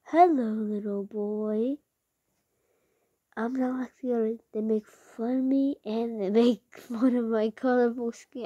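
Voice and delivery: a slow, lightly voiced sly girl; a hint of a coy villainess; Cammy voice. YouTuber tries Cammy, lightly coy and slow. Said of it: "I'm gonna do Cammy".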